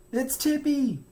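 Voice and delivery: high, loud worried cry; nervous cry. A narrator's reading. Franklin on his bike to his mother, high worried cry. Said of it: "he cried".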